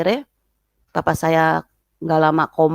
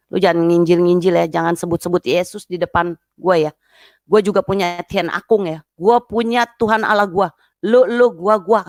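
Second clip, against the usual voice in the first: imitated angry sister. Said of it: "dia geprak meja sekuat-kuatnya".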